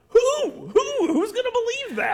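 very high, loud mocking disbelief; incredulous. Real, not acted. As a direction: shoot your voice way up, scoffing in disbelief. Mocks the claim with incredulity.

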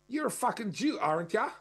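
imitating an ocker bogan taunting a stranger; Australian bogan accent. Man mimicking a bogan's jeer at a car's owners, Australian accent. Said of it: "this kind of bogan accent".

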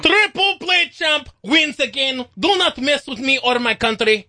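a hint of a mock tough guy; lightly hammed victory brag; mock gloat. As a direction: puff up and gloat over the win. Gloating after winning.

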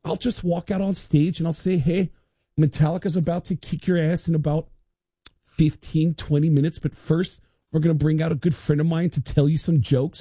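calm a nervous friend as Lars; lightly voiced Lars, casual; Lars reassuring. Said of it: "he said".

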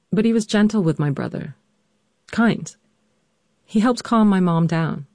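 measured, scripted storytelling read; personal essay narration. A narrator's reading. Daughter narrates her mother's illness for listeners, composed narration. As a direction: narrate your family's hard history with composure.

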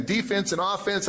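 DEE-fense and OFF-ense, first syllables stressed; sports pronunciation. Acted. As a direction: say Defense and offense like a basketball player, stress up front. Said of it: "put the right emphasis on the right syllable".

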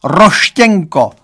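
slow, drawn-out mock wail; father lamenting a boy's nickname for his daughter.

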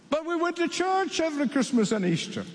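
high, anxious begging; pleading foolish ones. Acted.

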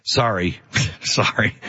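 embarrassed parent in the grocery store; embarrassed apology. Retold or imitated. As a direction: apologize to onlookers, mortified. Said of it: "you're like".

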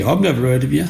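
dry, dismissive retort; sarcastic. Retold or imitated. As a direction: brush him off with sarcasm. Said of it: "And he went sarcastically".

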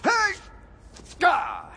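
pained startled cries; startled yelp. Acted. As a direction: yelp as you're grabbed. Grabbed mid-move.

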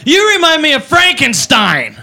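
put-on slow, odd drunk-girl voice. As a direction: slur it like a tipsy party girl. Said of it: "She goes".

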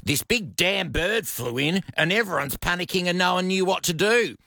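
lightly acted retelling, pitch lifted then settling; lively quote, easing down to unfazed; quoted Alice. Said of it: "this is what Alice said that I loved".

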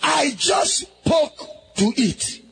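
full-force sermon shout over music; fiery preacher voice; preaching. Real, not acted. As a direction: preach it hard to the crowd.

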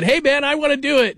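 mock eager. Eager prospect quoted.

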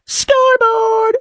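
drawn-out, very high victory crow; mock gloating scoreboard. Gloating host crowing over the Canadians. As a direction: crow it slow and high like a sports fan. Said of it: "I just go".

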